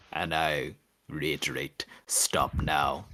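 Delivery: slow, hushed warning whispered to the maelstrom; menacing whisper. Acted. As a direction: breathe the threat, no voice behind it. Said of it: "is say".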